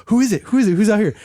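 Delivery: high, loud excited puzzlement; wide-eyed, asking all around; excited confusion. Retold or imitated. Band hearing a screaming crowd, excited and confused.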